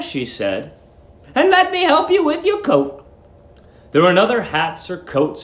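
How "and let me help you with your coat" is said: sweet landlady. Acted. Landlady luring the young lodger, high sugary coo. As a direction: coo at him like a doting landlady.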